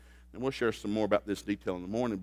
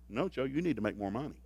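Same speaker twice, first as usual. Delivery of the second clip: calm wife; 5 dB quieter than usual. Retold or imitated. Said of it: "She looked up so calm".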